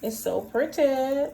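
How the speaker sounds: delighted drawn-out praise; admiring. Real, not acted. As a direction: gush over the color. Admiring the color.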